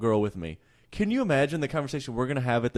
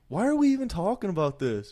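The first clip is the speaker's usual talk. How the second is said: high mock wife; 9 semitones higher, 3 dB louder than usual. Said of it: "She's like".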